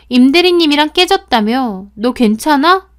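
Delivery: high, loud mock sympathy; fake concern. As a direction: pretend to care, too eagerly.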